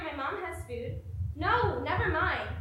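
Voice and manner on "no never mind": louder, slow and cutting; angry refusal. Acted. Turning down a friend's charity, angrily. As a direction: bite off the refusal slowly.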